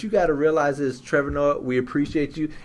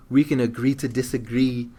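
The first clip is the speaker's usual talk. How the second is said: light South African accent, imitating Trevor Noah; a hint of Trevor Noah's voice. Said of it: "Is that your Trevor Noah voice?".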